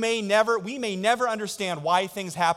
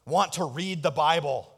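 mock priest indignation; 5 semitones higher, 6 dB louder than usual. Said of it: "stand up and say".

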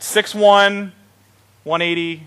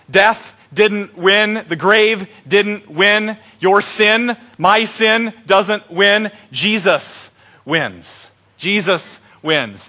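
slow, emphatic Easter proclamation; preaching; much slower than usual. Acted. Pastor proclaiming victory to the Easter congregation, slow and emphatic.

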